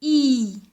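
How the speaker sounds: long, drawn-out "I", a pure ee; isolated I sound. Shown as a demonstration. Teacher showing children the sound, isolated I sound. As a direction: hold the "I" as one long clear vowel. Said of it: "le son I".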